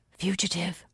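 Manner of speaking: hushed, secretive whisper. A narrator's reading. Lookout reporting an arrival in the dark, whisper. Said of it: "he whispered".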